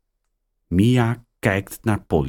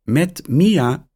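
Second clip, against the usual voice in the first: put-on girl answering phone; 9 semitones higher than usual. A narrator's reading. Mia answering the phone, higher girl voice. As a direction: answer brightly as a young girl. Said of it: "zegt ze nog eens".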